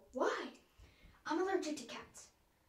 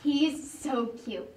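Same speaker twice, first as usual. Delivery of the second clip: gushing; 6 dB louder, much slower than usual. Acted. Gushing over a dog picture.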